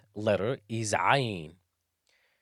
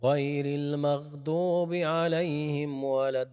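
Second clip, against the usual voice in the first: Quran recitation; faster than usual. Acted.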